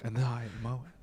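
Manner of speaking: lightly parodied public-radio sign-on; mock NPR co-host. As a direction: play along as a radio co-host. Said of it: "talking like this is N P R".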